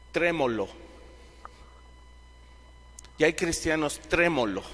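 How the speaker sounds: ordinary talk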